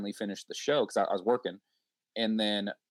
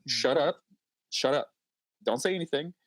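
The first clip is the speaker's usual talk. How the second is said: mock scolding self; 5 semitones higher than usual. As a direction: tell yourself to hush. Scolding oneself mid-recording.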